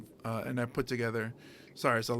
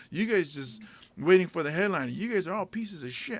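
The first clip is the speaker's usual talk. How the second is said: a slightly raised, mock-angry rant at the crowd; retold angry rant; 3 semitones higher than usual. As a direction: scold the crowd like a fed-up headliner, half-acted. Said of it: "And it pissed him off".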